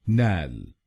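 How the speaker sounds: नैल said "nal" with the vowel of "cat"; नैल spoken on its own, "nal"; syllable demo. Shown as a demonstration. A teacher modelling the stressed syllable नैल as "nal". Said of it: "हम बोलेंगे नैल".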